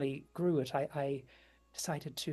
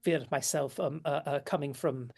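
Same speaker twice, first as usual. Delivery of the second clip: a touch of a smitten witch murmuring compliments; gentle admiring lady; 3 dB quieter than usual. Acted. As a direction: lean in and speak softly, charmed. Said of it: "puts a hand on your shoulder, just gently, and goes".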